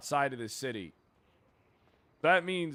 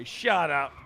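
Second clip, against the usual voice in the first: short firm retort; firm shut up; 6 dB louder than usual. Acted. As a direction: shut them down flatly. Snapping back at teasing.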